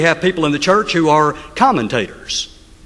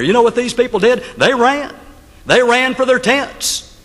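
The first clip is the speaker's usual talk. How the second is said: excited telling; 7 semitones higher than usual. Acted. Preacher dramatizes people fleeing.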